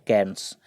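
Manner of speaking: कैर्न्स said carefully as one clear syllable, like "kairns"; pronunciation demo. Shown as a demonstration. Teacher showing students how to say कैर्न्स, careful. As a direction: spell it out then say कैर्न्स clearly for the class. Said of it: "इसका pronunciation है".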